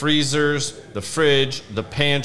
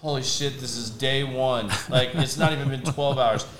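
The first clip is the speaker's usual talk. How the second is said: muttered under the breath, floored; quietly appalled at day one; stunned, hushed disbelief; 6 dB quieter than usual. Retold or imitated. Listening to the kid's plan, quietly stunned disbelief.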